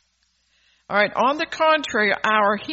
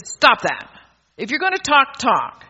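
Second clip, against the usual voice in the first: tag; 3 semitones higher, 4 dB louder than usual. Retold or imitated. Acts out scolding her kids.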